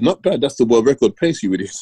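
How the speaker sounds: incredulous retort. Retold or imitated. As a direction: throw his words back at him in disbelief. Friend incredulous at the coach.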